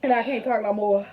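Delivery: strained, burning mouth; barely talking through the spice; mouth burning from spicy food. Real, not acted. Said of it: "I'm about burning".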